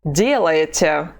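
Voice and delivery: "Делаете" slow, stressed on the first syllable; slow model word. Shown as a demonstration. Teacher modelling "Делаете" slowly for the class. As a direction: draw out "Делаете" with stress up front. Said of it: "Let's say it again".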